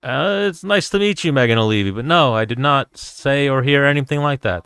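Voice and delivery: high-pitched, awkwardly courteous opening; mock-polite denial. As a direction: play politely backing out of trouble.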